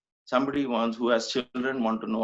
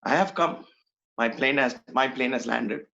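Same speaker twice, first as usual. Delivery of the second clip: retold Swami. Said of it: "talking to himself".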